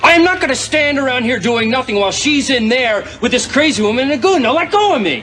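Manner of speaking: rising angry shout; furious, pulling free. Acted. Struggling to break free.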